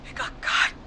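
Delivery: whispered, stunned horror; hushed and shaken to the core; horrified whisper. Acted.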